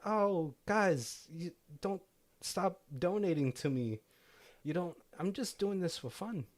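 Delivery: put-on lightly done New Zealand accent, pitched a bit up; Kiwi accent. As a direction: keep the humble Kiwi woodworker voice going. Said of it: "I'm super close to nailing it".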